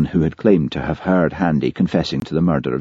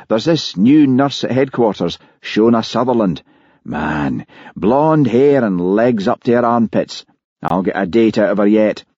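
higher, keen admiring chatter; lightly acted lad-about-town enthusiasm; lightly voiced policeman friend, eager; 4 semitones higher than usual. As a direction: rave about a new crush.

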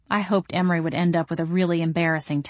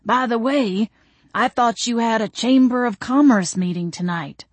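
gentleman's casual reminder, pitched up; a hint of a courtly friend; lightly voiced Mister Wainwright; 4 semitones higher than usual. A narrator's reading. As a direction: bring it up politely, a little high. Figure of Mister Wainwright in narrated dialogue.

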